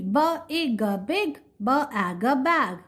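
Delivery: "B, ig, big", "b, ag, bag" split then blended; sounding out letters. Shown as a demonstration. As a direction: sound it out for the class. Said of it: "Look here again".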